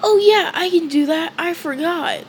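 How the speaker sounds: put-on high, bright boyish voice; Asta voice. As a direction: pop up into the eager kid. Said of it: "And Asta says".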